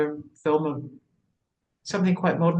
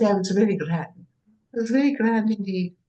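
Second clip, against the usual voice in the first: English working class voice; 6 semitones higher than usual. Pretend. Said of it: "English working class character".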